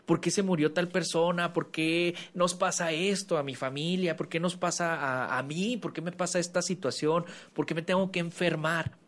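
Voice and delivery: hammed-up poor-me moaning; self-pitying victim. Mocking someone who feels like a victim, whiny. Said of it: "Y esto me pasó en el seminario".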